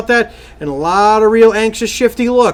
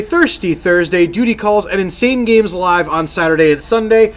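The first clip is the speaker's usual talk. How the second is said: announcer voice. Acted. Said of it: "randomly interrupt you with".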